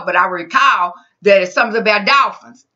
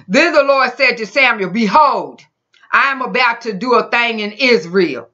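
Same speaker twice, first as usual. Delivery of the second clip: measured, emphatic Bible reading; scripture reading; 2 semitones higher than usual. Acted. Preacher reading the Lord's words to Samuel, emphatic. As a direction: read it out as the Lord's proclamation.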